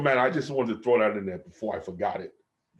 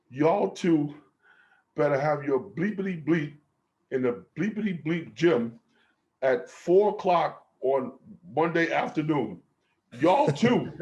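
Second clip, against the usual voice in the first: mock coach order; 5 semitones higher than usual. Coach ordering two players to the gym, mock bark. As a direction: bark it like a coach laying down the law.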